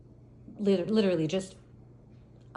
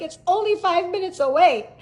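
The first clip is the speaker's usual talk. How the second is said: high, loud whine; mock tearful pleading; 8 semitones higher, 6 dB louder than usual. Crying teacher pleading with officer, mock tearful whine. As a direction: wail it as if still crying.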